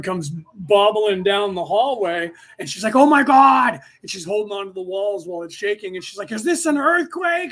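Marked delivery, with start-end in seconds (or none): 3.0-3.8 high, loud freaked-out exclamation; mock alarmed outburst, high and loud; excited girlfriend. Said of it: "she's all excited". 6.3-7.5 high-pitched, agitated question; mock-alarmed high voice; excited girlfriend. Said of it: "she's all excited".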